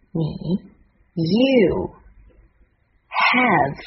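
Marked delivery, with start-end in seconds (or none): 1.2-3.8 "you", "have", each isolated and drawn out; pronunciation demo. Shown as a demonstration. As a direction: model "you" and "have" slowly, one by one. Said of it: "现在我们来看看发音的部分".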